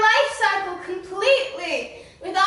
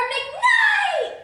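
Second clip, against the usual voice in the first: big announcement; 12 semitones higher than usual. Acted. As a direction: call out the guest's name like a showman. Announcing the special guest.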